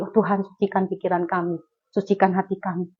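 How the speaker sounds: softly voiced quoted plea to God; understated, hushed prayer aside; murmured prayer. Acts out a quick repentant prayer.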